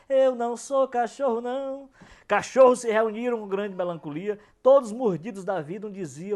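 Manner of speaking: rhythmic verse reading with lifted lines; cordel recital. Acted. Poet reads his dog-versus-singer cordel to listeners, declaimed.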